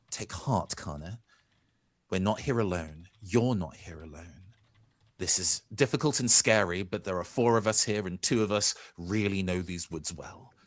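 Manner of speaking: lightly voiced reassuring hero; a hint of a calm comrade speaking close; character voice. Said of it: "in character voice".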